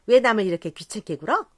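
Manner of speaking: a drunk mimicking the sharp-tongued lady; mock girl's voice. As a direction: imitate her warbling complaint. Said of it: "정말 꾀꼬리 같은 소리를 내었다".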